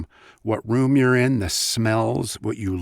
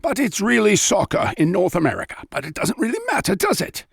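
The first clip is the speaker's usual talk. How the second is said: British accent, higher and louder, football commentator; British football announcer; 7 semitones higher, 5 dB louder than usual. Shown as a demonstration. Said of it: "I like to do this one ... soccer announcer".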